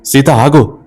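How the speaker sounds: shouting. Acted. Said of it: "అంటూ మళ్ళీ అరిచాడు".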